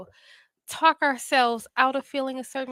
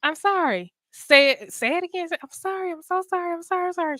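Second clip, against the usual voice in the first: higher, insistent mom nagging; 7 semitones higher than usual. Retold or imitated. Mom forcing son to apologize again, insistent. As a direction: push him to repeat it, pitched up.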